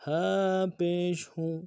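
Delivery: ہو with a gentle breathy h; ہا said softly. Shown as a demonstration. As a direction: let the h of ہو flow softly. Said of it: "ہا کو نرمی سے پڑھنا ہے".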